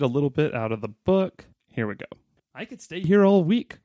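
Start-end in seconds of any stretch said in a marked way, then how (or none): 2.5-3.8 high, excited cartoon dad; cried out as Goofy. A narrator's reading. S0 reading Goofy's happy cry from the book, high and excited. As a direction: gush it like a thrilled goofy dad. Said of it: "cried Goofy".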